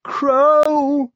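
hoarse, high, loud shout; clotted hoarse call. A narrator's reading. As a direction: call out through a raw throat. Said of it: "Barry's voice was clotted and hoarse".

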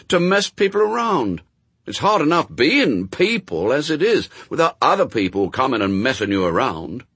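put-on high, loud, indignant boy; Adam, protesting boy. A narrator's reading. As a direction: argue like a child who finds it all unfair.

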